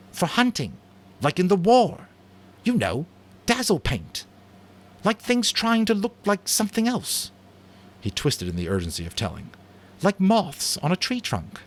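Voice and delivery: put-on high, urgent boyish voice; eager boy Jack. Jack urgently explains dazzle paint to Roger, high eager voice. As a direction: push the idea with boyish urgency.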